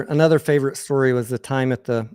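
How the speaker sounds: ordinary talk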